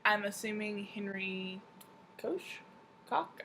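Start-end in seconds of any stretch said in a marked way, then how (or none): 2.2-2.4 "Koch" said with a long o, like "coach"; unsure pronunciation. Shown as a demonstration. Unsure of an author's surname, long-o "Koch". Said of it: "I'm not sure". 3.1-3.4 "Koch" said like "cock", raised in pitch; unsure pronunciation. Shown as a demonstration. Second guess at an author's surname, "Koch" like "cock". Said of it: "I'm not sure".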